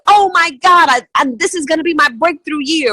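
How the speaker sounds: high, loud giddy gush; over-the-top excitement. Retold or imitated. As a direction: squeal about the breakthrough year. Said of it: "this unbelievable excitement where they go".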